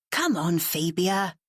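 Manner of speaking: slow, weary exasperation; exasperated. Acted. Matt pleading with Fabia, exasperated and slow. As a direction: drag it out, fed up with her. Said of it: "He sounded really exasperated now".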